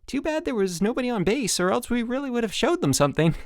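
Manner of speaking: high, pushed brightness; hollow counselor pep; forced enthusiasm. A narrator's reading. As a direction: keep the cheer going. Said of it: "with forced enthusiasm".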